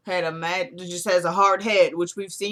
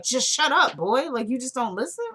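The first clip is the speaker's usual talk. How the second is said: mock telling-off, pitched up; retold scolding; 4 semitones higher than usual. Retelling Rusty silencing Randall, mock scolding. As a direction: imitate an irritated man going off on someone. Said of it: "he's going off on them".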